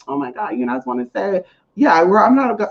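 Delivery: fake nice. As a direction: tiptoe in with put-on politeness. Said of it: "I can't be fake like that".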